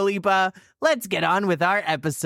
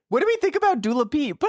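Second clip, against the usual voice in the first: Wendy Williams; 8 semitones higher, much faster than usual. Pretend. Imitating Wendy Williams pointing at the screen, mock voice. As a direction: ham up the daytime host. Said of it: "This is Wendy Williams pointing".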